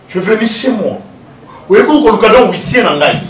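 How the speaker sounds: high, loud indignant outburst; angry accusation. Acted. Man accusing the visitor in his home, angry.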